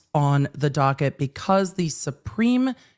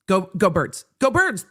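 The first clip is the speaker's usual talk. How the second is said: cheering. Real, not acted. Celebrating Eagles win.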